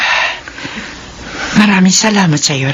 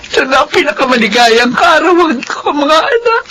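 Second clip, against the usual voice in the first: touching; 5 semitones higher than usual. Acted. Mother's emotional closing speech.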